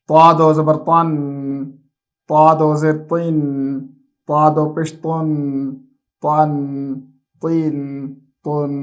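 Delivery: put-on steady sing-song letter drill, said slowly for children; measured recitation for a child to repeat after. Shown as a demonstration. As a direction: chant each syllable like a classroom takhti reading. Teacher chants the alphabet drill.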